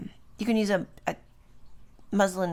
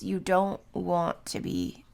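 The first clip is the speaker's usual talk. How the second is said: yawning. Real, not acted. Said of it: "I yawned".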